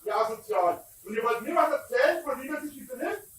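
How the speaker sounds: furious shouting at intruders; berserk rage. Real, not acted. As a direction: scream them off your land. Yelling at people on his property.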